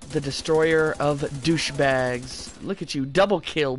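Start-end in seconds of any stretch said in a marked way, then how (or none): 0.1-2.5 slow, grandiose declaration; drawn-out mock-epic boast; mock-solemn proclamation. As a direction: intone it slowly like a doom prophecy. Mock-solemn boast after kills.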